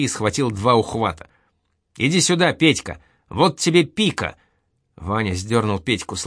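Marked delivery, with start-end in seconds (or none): 2.0-4.4 eager call. Acted. Vanya calls Petka to fight.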